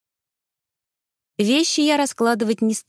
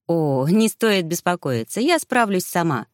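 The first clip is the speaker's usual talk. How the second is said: reassuring. Acted. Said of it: "успокоила я девушку".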